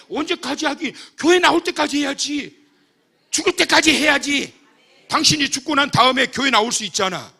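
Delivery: loud, high shout; emphatic retort. Retold or imitated. Pastor answering the deaconess with a loud retort. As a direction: fire back forcefully.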